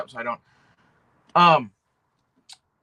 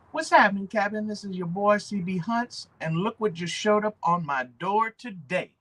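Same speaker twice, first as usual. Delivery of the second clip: lightly voiced, higher, louder YouTube opener; C B Hunts impression; 5 semitones higher, 3 dB louder than usual. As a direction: greet the viewers like a cheerful reviewer opening a video. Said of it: "when you hear him fucking say that".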